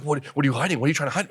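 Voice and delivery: loud, high mock questioning; retold interrogation. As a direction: imitate an officer pressing hard. Officer's interrogation acted out.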